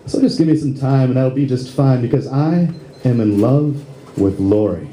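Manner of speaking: rhymed monologue in steady rhythm; comic spoken-word poem. Acted. Lead actor voicing Curly's inner monologue, rhythmic comic recital. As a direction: recite it as a rhyming comic piece.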